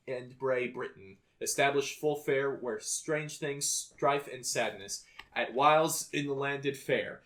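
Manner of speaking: measured, declaimed verse reading; stately poetry recitation; poem read aloud. Acted. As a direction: recite old alliterative verse, leaning into the beats.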